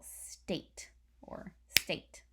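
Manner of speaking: "state" drawn out very slowly, unvoiced; slow demo. Shown as a demonstration. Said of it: "that has one syllable".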